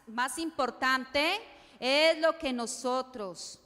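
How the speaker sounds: más importante drawn out slowly, importante stretched with a rising end; slow call to repeat. Shown as a demonstration. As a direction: spell out más importante slowly so the congregation can say it along. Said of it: "digan conmigo".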